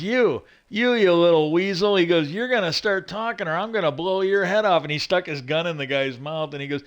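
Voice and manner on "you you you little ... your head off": raised, hammed-up tough-cop threat; mock threat. Cop threatening a weasel, in a loud mock snarl. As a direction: growl it like a cop threatening a suspect. Retelling Connery threatening the accountant.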